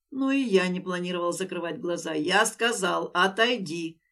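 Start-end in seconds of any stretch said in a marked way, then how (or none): 3.1-4.0 steely command. Acted. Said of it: "сколько стали зазвенело в воздухе".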